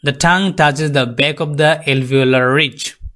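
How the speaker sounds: very slow, careful English; slow classroom English; slow explanation. Shown as a demonstration. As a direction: spell it out word by word. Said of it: "post alveolar".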